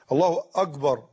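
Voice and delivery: «الله أكبر» with a g in place of k: «أجبر»; kaf as gim. Shown as a demonstration. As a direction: turn the k of «أكبر» into a hard g. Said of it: "يسوي الكاف جيم". («أكبر» بالجيم بدل الكاف)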